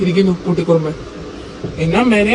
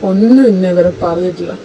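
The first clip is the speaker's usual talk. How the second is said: hurt outburst. Acted. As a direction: pour out the hurt, almost shouting. Hurt husband pours out his anger.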